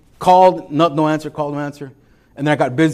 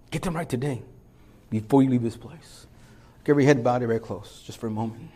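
soft, intimate preaching; hushed sermon close; 6 dB quieter than usual. Acted. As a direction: draw them in gently, quietly. Quiet altar-call intimacy.

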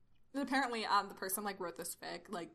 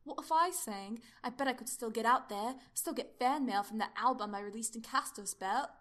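Doctor character; 2 semitones higher, 5 dB louder than usual. Acted.

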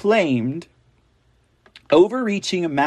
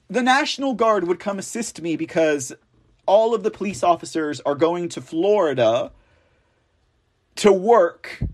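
normal talking voice

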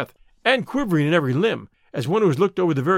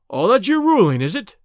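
raised, challenging retort; louder and higher, in affront; indignant; 4 semitones higher, 5 dB louder than usual. Acted. Baldwin disputes the boss's ruling, indignantly.

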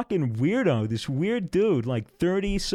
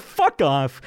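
punchy, louder mock brush-off; dismissive retort; 5 dB louder than usual. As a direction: spit out a sudden retold dismissal. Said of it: "like that".

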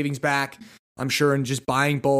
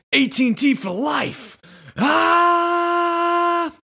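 high, loud mock yell ending in a scream; pretend yell; 4 dB louder, much slower than usual. Shopper yelling at the salesman, mock fan scream. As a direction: yell it like a crazed superfan. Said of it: "And just yell".

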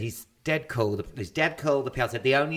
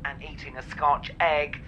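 mock train announcement.

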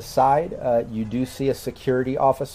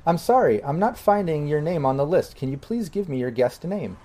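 AI voice; 4 semitones higher than usual. Acted. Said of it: "but this A I says".

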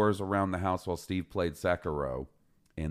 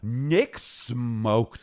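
slow drawn-out; 4 semitones higher, 3 dB louder than usual. Real, not acted. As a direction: stretch it out slowly.

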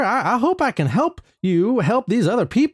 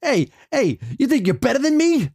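a hint of New York-Boston tough guy; tough Boston accent; 3 semitones higher than usual. Guest tries a tough Boston accent. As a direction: street tough challenge. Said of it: "Is that New York or is that Boston?".

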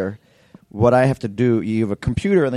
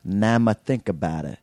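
put-on New York accent; 3 dB quieter than usual. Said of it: "that's my New York accent right there".

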